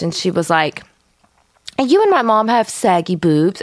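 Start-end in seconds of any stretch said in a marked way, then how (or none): 1.8-3.6 mocking a kid's fake European accent, pitched up; squeaky put-on kid voice with a phony French lilt; kid's silly fake French voice. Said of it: "that stupid voice the kids do".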